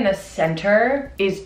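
chewing while speaking; talking with mouth full. Real, not acted. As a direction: hand covering mouth. Seen 1: Eating tart; hand covers mouth roughly 0.9–2.2s, then drops.

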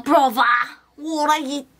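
badly faked British accent. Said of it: "British, I, a British".

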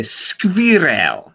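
slow, drawn-out German squirrel; German accent. Retold or imitated. Imitating a grumpy German man, heavy German accent. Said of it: "before that time, he would say".

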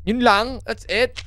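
high visitor voice. Acted. Visitor excuses herself in voice.

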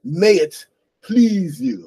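put-on formal old English. Shown as a demonstration. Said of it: "they don't say things like".

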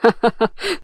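a hearty laugh, lightly voiced; amused laugh. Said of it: "عمر ضحك قوي وقال".

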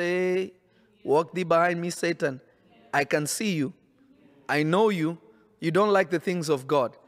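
low, measured voice of rebuke; lightly acted rebuke, in short separate phrases; Jesus rebuking Peter. Jesus tells Satan in Peter to get behind him, a low, lightly acted rebuke.

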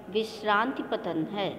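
rhythmic, measured poem reading with lifted repeats; poem recitation. Shown as a demonstration. Teacher reciting a Hindi poem for her pupils, rhythmic and measured. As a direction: recite it like a model reading for the class. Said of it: "जिस प्रकार से मैं कविता का वाचन कर रही हूँ".

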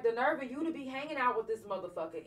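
mock-explode at him again in disbelief; telling off her attacker with a mild retold yell; retold blow-up. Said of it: "I just blew up".

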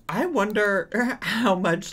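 laughing through the words. Real, not acted.

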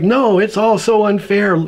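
acted-out complaining; indignant complaint. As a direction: protest the unfairness, aggrieved. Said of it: "chapters and chapters of Job complaining".

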